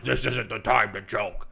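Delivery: slow, drawn-out mock disapproval; mock scolding. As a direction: scold like an offended commenter, hammed up. Mimics online critics of tweet.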